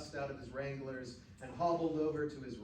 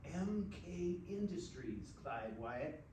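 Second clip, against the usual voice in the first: whispering; 6 dB quieter, slower than usual. A narrator's reading. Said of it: "then whispering".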